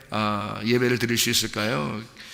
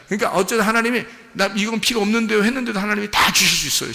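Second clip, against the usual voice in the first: excited; 8 semitones higher, faster than usual. Real, not acted. Preacher to congregation, rising excited proclamation. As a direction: burst out in excitement over God's gifts.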